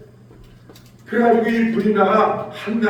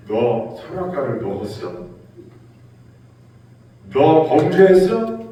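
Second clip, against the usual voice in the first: mock thunder. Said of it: "아담을 호통치시면서".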